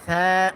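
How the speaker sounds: সা with a very soft lisping opening sound. Shown as a demonstration. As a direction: keep the consonant of সা completely soft. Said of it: "সা একেবারে নরম". (সা একেবারে নরম করে)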